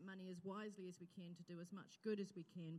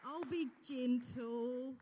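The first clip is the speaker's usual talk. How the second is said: slow it right down to settle a nervous guest; gentle reassurance; 2 semitones higher, 9 dB louder, much slower than usual. Real, not acted. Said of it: "Carol, just come here for a minute".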